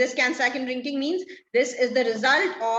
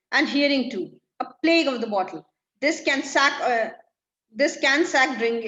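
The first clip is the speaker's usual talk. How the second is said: irritated; 5 dB louder than usual. Acted.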